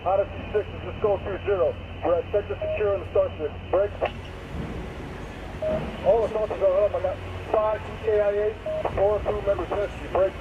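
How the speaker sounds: crackly military radio. Real, not acted. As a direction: report in through radio static. Team leader reporting by radio.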